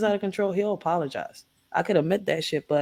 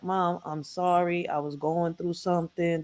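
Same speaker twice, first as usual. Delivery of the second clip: soft, slow remorseful apology; sorry apology; 3 semitones lower, 7 dB quieter, slower than usual. Retold or imitated. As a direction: say it quieter and slower, sheepish. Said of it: "He's like".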